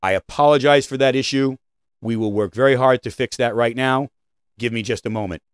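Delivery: calm, genuine apology to a customer; sincere apology. Shown as a demonstration. Coach modelling the right apology, sincere and calm.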